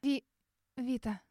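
испуганный всхлип, почти без звука; едва выдохнуть имя сквозь слёзы; еле слышно. Acted. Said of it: "Еле слышно всхлипываю я". (еле слышно, всхлипывая)

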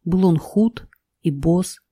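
put-on lilting old-style fairy tale telling; grandma telling fairy tale. A narrator's reading. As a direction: tell it like a cozy bedtime tale. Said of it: "расскажи лучше сказку".

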